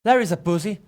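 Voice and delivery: brash trash-talking tout; cocky sports gambler voice; Freddie Fortune. Acted. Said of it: "Freddie Fortune, what's up, man?".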